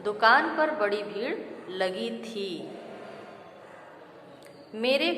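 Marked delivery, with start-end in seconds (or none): 0.0-2.8 बड़ी and लगी said clearly as the fixed forms; corrected sentence. Shown as a demonstration. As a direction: read the corrected version with a falling close. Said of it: "शुद्ध उच्चारण होगा".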